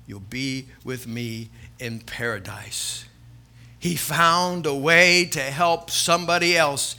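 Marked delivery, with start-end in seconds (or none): 0.1-3.1 Jesus on the cross. Retold or imitated. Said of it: "he turns to him and he says".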